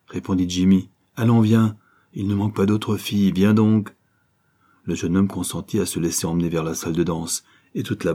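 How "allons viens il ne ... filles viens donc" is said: coaxing call. Acted. Jimmy entraîne le jeune homme.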